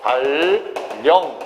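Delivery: 대관령 said very slowly as "대괄령"; drawn-out teacher's demo of 대관령 with ㄴ as ㄹ; correct pronunciation demo. Shown as a demonstration. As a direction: stretch 대관령 syllable by syllable, dae-gwal-lyeong. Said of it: "어떻게 발음한다".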